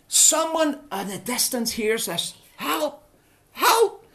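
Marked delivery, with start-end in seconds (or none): 2.6-4.1 acted distress calls, rising to a yell; shouts for help. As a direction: call out twice to someone in the distance. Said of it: "And he shouts".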